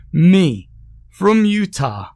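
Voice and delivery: high, laughing through the words; cracking up at his own joke; laughing hard. A narrator's reading. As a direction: Utah said through big laughs. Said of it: "busted out laughing again, harder this time".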